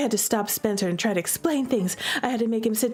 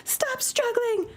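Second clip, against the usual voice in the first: high, slow, stern order; firm command; 13 semitones higher, slower than usual. Acted. Sister pinning her brother, high slow command. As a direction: bear down on him, slowly.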